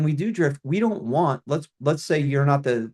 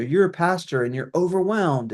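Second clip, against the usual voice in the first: mildly mocking, a bit higher; mocking email tone; 5 semitones higher than usual. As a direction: lightly parody a condescending email. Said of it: "let's call it the tone of those emails".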